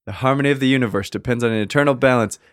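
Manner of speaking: grand movie-trailer narration; epic fantasy narrator. Acted. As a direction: read it like an ancient legend. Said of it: "I faded in and out of, uh, an accent".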